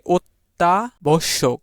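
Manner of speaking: অত্যাবশ্যক slowly as "ot-ta... bosshok", opening on o; pronunciation demo. Shown as a demonstration. Teacher showing অ said like ও, slow "otta-bosshok" for অত্যাবশ্যক. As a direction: break up অত্যাবশ্যক and start it with a rounded "o". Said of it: "অ এর উচ্চারণ এখানে ও".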